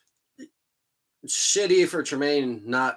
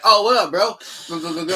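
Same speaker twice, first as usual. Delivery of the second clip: mock party bro; 6 semitones higher, 7 dB louder than usual. Mocking a friend bringing beers.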